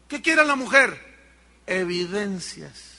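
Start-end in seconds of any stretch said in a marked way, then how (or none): none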